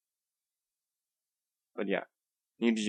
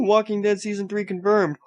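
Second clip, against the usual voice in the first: hyped announcer; 10 semitones higher than usual. Shown as a demonstration. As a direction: sell the news like a game show host. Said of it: "I'm trying to do this enthusiastically".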